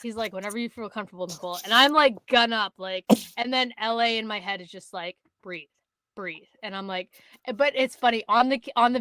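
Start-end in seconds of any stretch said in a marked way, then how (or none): 0.3-1.6 softly quoted, easygoing encouragement; patient reassurance. Retold or imitated. Hunting partner telling the nervous shooter to take her time, soft and patient. 5.4-6.5 hushed inner-voice reminder; calming self-coaching. Retold or imitated. Hunter steadying herself before the shot, hushed and calming. Coaching voice heard in her head.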